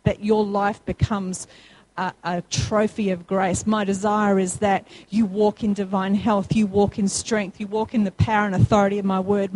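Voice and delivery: quoting God's promises to the congregation, low and calm. Retold or imitated. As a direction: speak as a steady loving father. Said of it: "God's word already says".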